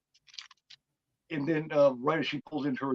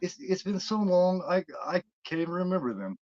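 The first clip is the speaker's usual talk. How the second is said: higher-pitched calm, unhurried; 6 semitones higher than usual. Retold or imitated. Woman answers the captive boy about stories, mock calm. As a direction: imitate her calmly brushing it off. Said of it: "And she calmly says".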